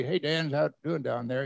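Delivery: breezy, understated check-in; casual greeting. Acted. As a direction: toss it off like small talk. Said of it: "He just didn't say".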